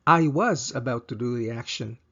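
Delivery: "was" leaned on, past tense stressed. Shown as a demonstration. Teacher stressing "was" for learners. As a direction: hit "was" to mark the past. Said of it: "Emphasis on the was here".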